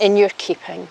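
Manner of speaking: officiant vows. Shown as a demonstration. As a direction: lead the vow line by line. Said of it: "repeat after me".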